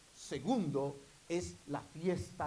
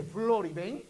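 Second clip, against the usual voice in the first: God calling; 7 semitones higher, 12 dB louder than usual. Acted. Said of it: "cuando Dios dice".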